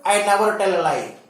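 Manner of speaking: never pressed, words quick; stress on never. Shown as a demonstration. Teacher showing how never adds stress, pressing never. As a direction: hit never firmly. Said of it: "whenever you use never".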